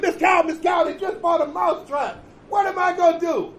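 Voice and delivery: high, desperate cry for help; desperate mouse shout. Acted. Mouse begging the cow for help, high desperate shout. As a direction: yell it up high, near panic.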